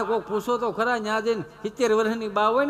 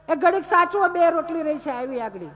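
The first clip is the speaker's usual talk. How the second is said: calling out; 9 semitones higher than usual. Retold or imitated. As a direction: shout back over the noise, mock wife. Wife calling from the kitchen.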